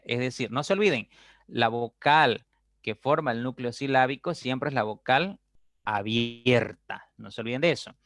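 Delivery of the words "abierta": "abierta" stretched out slowly; emphatic drawn-out word. Shown as a demonstration. Teacher fixing the key term for students, stretched emphasis. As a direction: draw out "abierta", leaning on the middle syllable.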